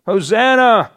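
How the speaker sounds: ringing festive Hosanna shouts; crying out hosanna. Retold or imitated. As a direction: call it out like children cheering the king. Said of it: "cry out".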